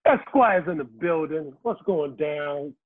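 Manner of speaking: slow, low showman entrance; announcer entrance. Acted. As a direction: play it like a host's big entrance. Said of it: "the man, the myth, the legend".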